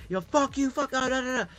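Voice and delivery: high, heated yell of a street fight; high mock yell at the neighbours; retold street yelling. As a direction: bark it like a neighbour losing it.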